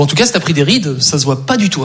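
low, smooth instant answer; mock reassuring. Man answering his girlfriend about wrinkles, mock reassuring. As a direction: drop low and reassure her.

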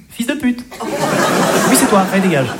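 snide insult. Shown as a demonstration. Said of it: "Moi, j'entends".

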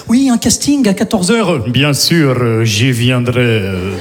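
put-on low Russian-accented voice; deep slow accented small talk. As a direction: keep up the gangster accent politely. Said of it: "obligé de parler comme ça".

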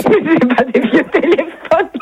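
laughing. Real, not acted. Laughs at absurd sales pitch.

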